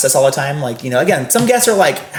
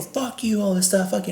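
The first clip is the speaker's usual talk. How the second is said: mock sulky swearing; 7 semitones higher, 8 dB quieter than usual. Guest swearing at him.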